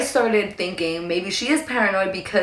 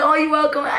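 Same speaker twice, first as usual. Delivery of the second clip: high-pitched, laughing mock sweetness; hammed-up gracious squeal; gushing reply; 7 semitones higher than usual. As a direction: play it cutesy and high, breaking into a laugh. Playful reply to the little Irishman.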